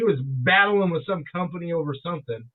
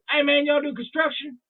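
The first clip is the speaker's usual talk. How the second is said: put-on deep Southern accent; 7 semitones higher than usual. Stranger asking diners about construction, imitated deep Southern accent. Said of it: "deep accent".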